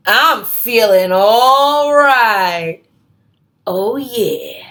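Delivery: slow, easygoing cool cat; relaxed groovy cat, stretched out slow; laid-back cool cat. Acted. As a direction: drawl it out like the coolest cat around. Pete's cool refrain line.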